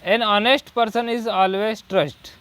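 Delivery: very slow, word by word dictation; slow example read. Shown as a demonstration. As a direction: read each word slowly for the class. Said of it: "फिर next". (धीमे-धीमे उदाहरण पढ़ना)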